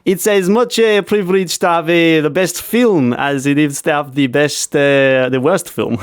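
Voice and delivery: put-on a weak try at a thick Italian accent; heavy Italian accent, not quite landing. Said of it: "he says a very thick Italian accent".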